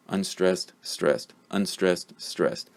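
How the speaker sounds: "Unstressed, stressed" repeated as an even back-and-forth beat, falling on "stressed"; alternating rhythm. Shown as a demonstration. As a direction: chant "Unstressed, stressed" in steady alternation, dropping at each "stressed". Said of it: "the rhythm of English is like this".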